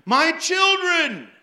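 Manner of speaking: loud, high and slow; hammed-up prophetic call; mock prophetic cry. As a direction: draw it out like a prophet. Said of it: "he kept standing up and saying".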